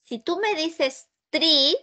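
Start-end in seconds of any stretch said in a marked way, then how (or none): 1.3-1.8 TREE with a plain hard T and no puff of air; TREE begun with a stopped T, not TH. Shown as a demonstration. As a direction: say TREE, tongue on the teeth for a crisp T. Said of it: "así, con los dientes nada más".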